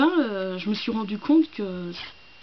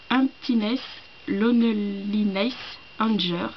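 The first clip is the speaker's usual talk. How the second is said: French-accented English; slower than usual. Shown as a demonstration. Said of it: "mon accent, euh, anglais est tout pourri".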